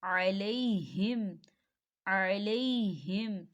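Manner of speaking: अलैहिम chanted very slowly, हा heavy, not stretched; slow recitation tone for अलैहिम; Quranic recitation. Shown as a demonstration. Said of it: "हा की मिसाल को देखें".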